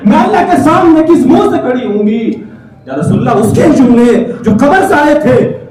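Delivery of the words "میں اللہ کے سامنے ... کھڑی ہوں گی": raised reproach from the grave; a wounded girl accusing him; dead girl's voice. Acted. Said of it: "اندر سے آواز آئی". (قبر سے لڑکی کی شکایت بھری آواز)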